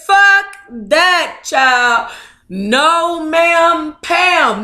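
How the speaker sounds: high, loud sassy brush-off; sassy attitude. Acted. Carlita refusing to stay, high loud sassy dismissal. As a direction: toss it off with full attitude. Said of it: "I got that same attitude".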